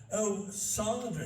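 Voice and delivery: lightly mocking posh lady, slow; a touch of a posh tourist; posh woman. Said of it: "this posh woman".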